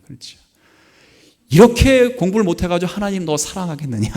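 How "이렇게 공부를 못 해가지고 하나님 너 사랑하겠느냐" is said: higher, louder mock scolding of his daughter; retold angry scolding. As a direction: replay a father losing his temper, half in jest. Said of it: "화를 냈다는 거 아닙니까".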